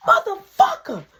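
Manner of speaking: high, loud furious curse; mama cursing. Retold or imitated. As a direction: spit out the curse in a rage. Mama after punching Mark.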